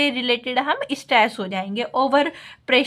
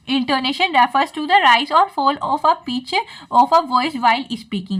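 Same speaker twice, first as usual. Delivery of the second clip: slow, careful reading aloud of a textbook line; slow dictation reading; much slower than usual. Acted. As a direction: dictate it slowly, word by word, for notes. Reads English definition to class. (धीमे-धीमे notes लिखवाने वाली आवाज़)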